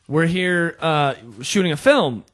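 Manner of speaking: lightly put-on fake British accent; bad British accent. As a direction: attempt a poor British accent. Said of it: "the worst British accents we've ever heard".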